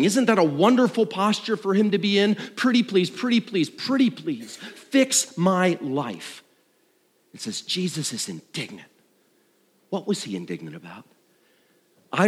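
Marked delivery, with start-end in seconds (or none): 2.6-6.4 higher, lightly pleading pretty please, slowing at the end; a light child-like plea; hint of a wheedling beggar drawn out; mock begging. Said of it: "The man is coming, begging".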